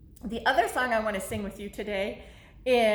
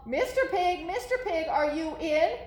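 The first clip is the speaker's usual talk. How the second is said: a slightly higher call; 5 semitones higher than usual. Acted. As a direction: call politely to the pig. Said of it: "I called".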